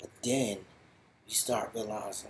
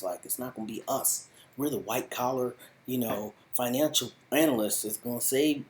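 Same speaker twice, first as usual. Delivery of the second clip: higher, louder, quick protest of innocence; excited protest; 5 semitones higher, 4 dB louder than usual. Retold or imitated. Bateman's character insisting to the dealer they didn't steal, excited higher protest. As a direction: talk him down with rising urgency. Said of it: "is like".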